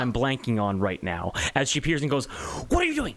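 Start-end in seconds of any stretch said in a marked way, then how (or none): 2.7-3.2 breathy angel whisper. Acted. GM voices angel appearing.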